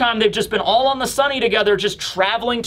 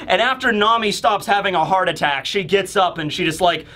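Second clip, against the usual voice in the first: ordinary delivery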